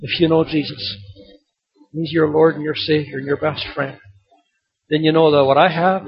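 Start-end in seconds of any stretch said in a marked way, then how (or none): none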